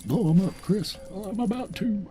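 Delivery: high, loud egging on; urging Chris to blow them up, excited. Real, not acted. Cheering on companion.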